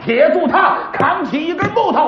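dramatic pingshu storyteller voice, rising to the cliffhanger; storyteller narration. Acted. Storyteller tells listeners the cave-in, in a dramatic pingshu voice. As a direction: spin the tale like a pingshu teller.

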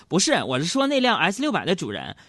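calmly. Retold or imitated. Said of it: "淡定地说".

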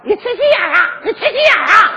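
parrot's mock yell. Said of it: "天天冲我喊".

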